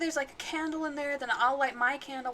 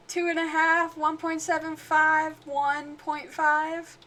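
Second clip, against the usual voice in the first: drawn-out slow counting; slow demo count; 2 semitones higher, slower than usual. Shown as a demonstration. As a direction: count it out slowly, deliberately. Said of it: "Isn't that how you count?".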